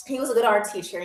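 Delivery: low, subdued repeat with mock emotion; mock wistful. Artist remembering jailed professor, mock wistful and low.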